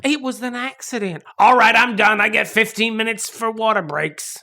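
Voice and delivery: lightly voiced worker clocking off; voice of an accent. The actress's accent demanding its break, in mock protest. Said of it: "That's what he sounds like".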